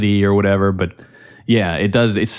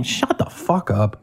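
muttered; 5 dB quieter, slower than usual. Real, not acted. Reacting to annoying chatter.

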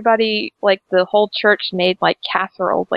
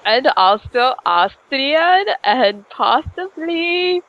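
slow, high mock Austrian accent; all-purpose fake accent; 4 semitones higher, much slower than usual. Shown as a demonstration. Listing nationalities for the impression, in an all-purpose fake accent. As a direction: drag out a muddled all-purpose foreign accent. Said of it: "Is this your all-purpose accent?".

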